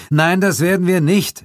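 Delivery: loud, high, firm no; firm refusal. Acted. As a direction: shut the idea down. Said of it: "entgegnete Suko". (energisch und laut widersprechen)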